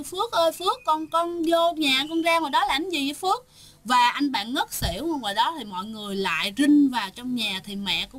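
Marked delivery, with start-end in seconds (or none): 0.0-3.5 frightened calling. Retold or imitated. Frightened mother calls son.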